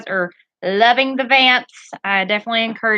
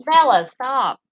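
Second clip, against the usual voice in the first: firm no to the dog; slower than usual. Real, not acted. Dog whining at the gate.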